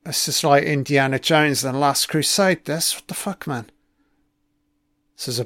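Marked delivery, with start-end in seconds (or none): 2.9-5.4 whispered in disbelief; hushed what-the-hell reaction; shocked whisper. Real, not acted. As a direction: breathe it out under your breath, stunned. Shocked at the screen.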